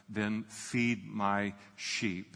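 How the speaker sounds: slow, soft and deliberate, as Jesus; slow gentle Jesus. Retold or imitated. Jesus telling Peter to feed his sheep, slow and gentle. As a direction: lay each word down slowly and tenderly.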